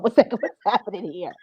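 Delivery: hushed, breathy "what's happening here"; whispered confusion. Retold or imitated. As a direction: whisper it, baffled.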